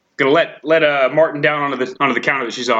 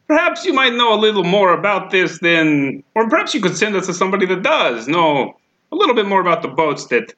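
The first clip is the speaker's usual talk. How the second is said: smarmy seduction. Pretend. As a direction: lay the charm on thick. Bard seducing the clerk.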